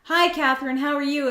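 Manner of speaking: lightly acted, high-pitched greeting; friendly greeting. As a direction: play a friendly hello in a lifted voice. Role-play of a friendly greeting.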